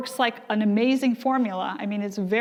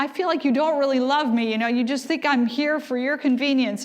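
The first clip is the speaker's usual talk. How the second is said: whiny complaint; 3 semitones higher than usual. Retold or imitated. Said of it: "I'd say these terrible things".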